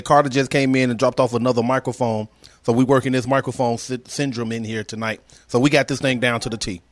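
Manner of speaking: muffled, fuzzy mic sound; fuzzy soft voice. Real, not acted. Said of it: "You sound very fuzzy".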